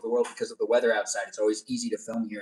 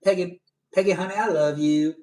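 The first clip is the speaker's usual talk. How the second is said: higher put-on Southern sweet-talk; Southern accent; 4 semitones higher than usual. Streamer trying a greeting for viewer's mom, Southern accent. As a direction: pitch it up with a Southern twang. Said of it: "it'd be funnier if I said".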